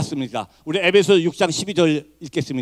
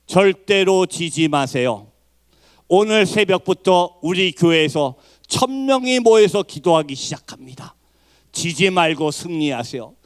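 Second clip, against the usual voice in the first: slow, deliberate and emphatic quote; solemn rallying message; 2 semitones lower, slower than usual. Retold or imitated. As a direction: deliver each phrase weightily, as encouragement. Reading out church leader's rallying message. (천천히 힘주어 전하는 격려)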